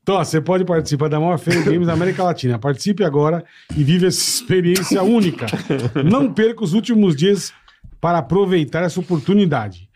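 upbeat sponsor ad read. Acted. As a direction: sell it like a radio ad.

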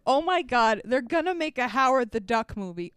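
mild, disbelieving shock; retold shock. Babbling to a friend in the theater, mildly shocked. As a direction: repeat it as if stunned, only lightly acted. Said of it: "I was in shock".

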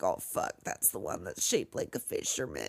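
low, hushed terrified whisper; scared whisper. Acted. Girl spotting the killer among mannequins, terrified whisper. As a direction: breathe it in hushed fear. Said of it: "She's like".

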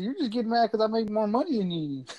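talking shit. Retold or imitated. Taunting the trooper about money, talking shit. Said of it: "started talking so much shit".

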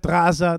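"Gaza" with a throaty Arabic gh start, Ghazza. Retold or imitated. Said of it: "That's how they say Gaza".

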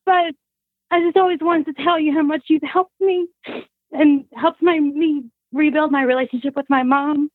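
tearful. Real, not acted. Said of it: "I'm gonna cry".

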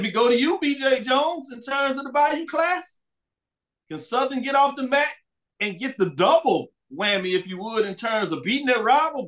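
excited. Real, not acted. Host hypes rivalry question.

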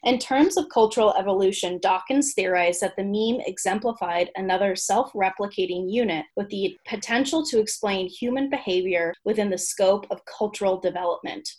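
measured, articulate read-aloud of a humorous essay; written entry reading. Acted. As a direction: present it like a comic encyclopedia entry.

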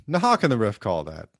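loud mock commentator protest, climbing high; imitated outraged play-by-play; Niederman. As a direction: protest the call like an indignant sportscaster. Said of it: "And then Niederman".

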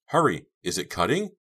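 high, loud start, easing into a question; urging. A narrator's reading. Girl checking on friend sawing at rope, urgent. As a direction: press him urgently for progress. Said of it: "Dina urged".

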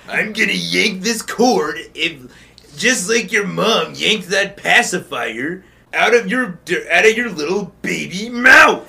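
slow, deliberate mock threat; threatening coach. Muscle Man threatening to yank the cord, slow hammed-up threat. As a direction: build the taunt word by word.

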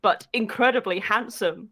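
mock-epic back-cover narration; theatrical narrator with measured phrasing; story blurb read. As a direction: read it like a pulpy trailer, pausing for effect. Reads a comic romance blurb aloud.

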